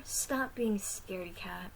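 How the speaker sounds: slow, teasing whisper. Acted. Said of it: "Zizzy teased me".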